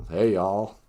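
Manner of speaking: brief Southern drawl; Southern accent. Shown as a demonstration. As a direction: greet like a Southerner. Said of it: "I can do a Southern accent".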